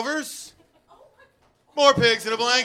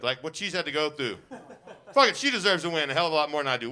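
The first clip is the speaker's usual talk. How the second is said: laughing; 3 semitones lower, faster than usual. Acted. Mock gracious loser.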